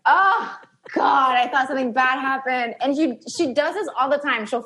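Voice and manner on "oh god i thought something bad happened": panicked relief. Retold or imitated. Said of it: "And I was like".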